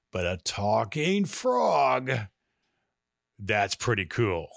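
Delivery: slow, then whispered; hushed delight. Acted. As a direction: marvel under the breath. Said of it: "Nerdy Ned smiles and says".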